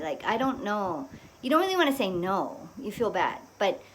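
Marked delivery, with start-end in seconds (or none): 0.2-1.1 quiet, hesitant hedge; indirect refusal. Shown as a demonstration. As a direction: dodge a direct no, softly. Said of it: "we really talk like that".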